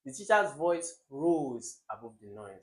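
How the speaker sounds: The teacher's voice rose above the noise, said with an even beat; rhythmic. Shown as a demonstration. Teacher relishing the example sentence, said rhythmically. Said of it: "So rhythmic".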